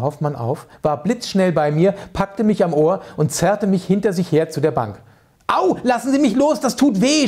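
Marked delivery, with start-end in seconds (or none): 5.5-7.3 high, pained yelp; yelping cry. Acted. Boy yelps as Hoffmann drags him by the ear, high and loud. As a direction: cry out as your ear is pulled, much higher. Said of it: "schrie ich".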